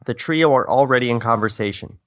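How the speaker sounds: ordinary talk, nothing marked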